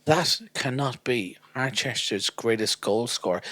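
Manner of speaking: mock-dramatic, deliberate disbelief; acted disbelief. Fan spotting his hero on the bus, mock disbelief. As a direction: build from measured awe to proclaiming.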